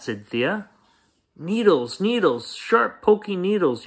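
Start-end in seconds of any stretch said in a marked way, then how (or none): 1.4-3.9 high-pitched complaining yell; yelling child. Acted. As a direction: cry it out like a hurt kid. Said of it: "yelled Tate".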